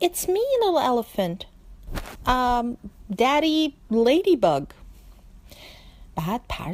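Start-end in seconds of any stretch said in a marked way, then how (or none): 0.1-4.6 higher, gentle ladybug voice; ladybug's voice. Acted. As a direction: speak up as the little ladybug. Ladybug voice in story. (صدای بابا کفشدوز)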